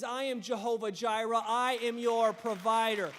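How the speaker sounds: God proclaiming himself as provider. Retold or imitated. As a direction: pronounce it like God speaking. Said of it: "eternal voice that says".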